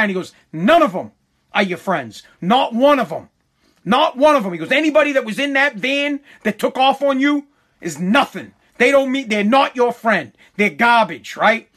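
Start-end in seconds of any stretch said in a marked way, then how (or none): 0.5-4.5 tag. Retold or imitated. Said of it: "that he was pissed". 4.7-11.4 emphatic retold scolding, starting high; imitated indignant lecture; pissed-off father. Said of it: "that he was pissed".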